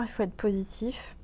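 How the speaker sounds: glisse-le dans un souffle; chuchoté. Real, not acted. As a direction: murmure appuyé, sans voix. Aparté chuchoté. (chuchotement complice)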